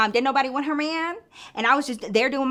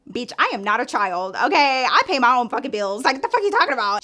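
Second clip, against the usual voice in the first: heated retort, getting louder; indignant comeback; 4 dB louder than usual. Retold or imitated. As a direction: snap back, mildly acted outrage. Retold angry comeback to the insult.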